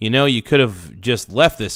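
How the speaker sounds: plain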